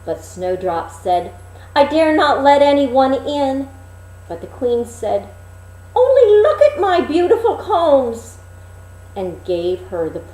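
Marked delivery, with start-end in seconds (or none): 1.7-3.7 put-on high, loud, innocent girl; sweet Snowdrop at the window; young girl's voice. Snowdrop at the window greeting the old peddler, high. 6.0-8.4 high, loud, cackling crone voice; coaxing old crone. Acted. Disguised queen coaxing Snowdrop with her combs, high and cackling.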